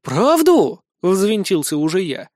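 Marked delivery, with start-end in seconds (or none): 0.0-0.8 much higher, louder, bitter disbelieving echo; incredulous echo. Acted. Son throws the king's word back, incredulous.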